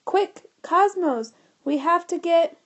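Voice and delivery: slow, loud and high, cut off; urgent shout. A narrator's reading. George urging the computer, slow loud shout. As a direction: drag out the command, then break off.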